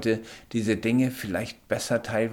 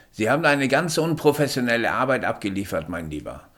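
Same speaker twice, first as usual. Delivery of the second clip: sarkastisch; 4 semitones higher, 5 dB louder, faster than usual. Acted. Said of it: "in einem Anflug von Sarkasmus".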